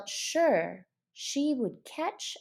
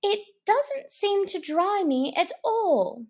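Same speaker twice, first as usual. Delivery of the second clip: mildly glum; 10 semitones higher than usual. Acted. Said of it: "in a melancholy tone".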